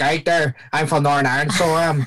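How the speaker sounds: put-on light Northern Irish accent; playful Northern Irish accent impression. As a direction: slip into a broad Northern Irish lilt. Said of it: "the more I sound like".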